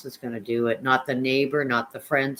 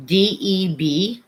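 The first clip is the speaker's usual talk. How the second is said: spelled out slowly; 5 semitones higher, 5 dB louder, much slower than usual. Shown as a demonstration. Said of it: "What is your name on Facebook".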